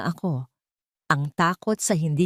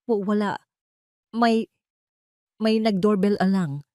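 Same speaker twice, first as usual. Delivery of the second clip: halting, slightly raised stuttered answer; nervous stammer; 4 semitones higher than usual. A narrator's reading. Guilty husband answers that someone rang, stammering. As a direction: stumble on first words, pausing between attempts. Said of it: "nauutal niyang sagot".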